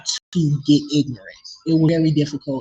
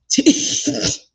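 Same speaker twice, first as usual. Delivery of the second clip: exasperated laugh; 10 semitones higher than usual. Real, not acted. Laughs at own anger.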